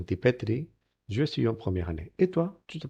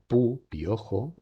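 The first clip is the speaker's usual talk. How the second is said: slow model word; 2 semitones higher, much slower than usual. Shown as a demonstration. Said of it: "model word".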